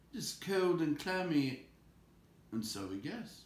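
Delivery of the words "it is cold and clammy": higher disgusted creature voice; squeamish Gollum. Acted. Gollum complaining of the cold fish. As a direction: shudder at the touch.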